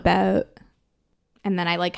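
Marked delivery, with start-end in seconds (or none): 0.0-0.5 "About" with a Canadian raised vowel, near a-boat. Shown as a demonstration. Correcting a co-host's Canadian impression, "About" with raised vowel. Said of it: "except for when they say".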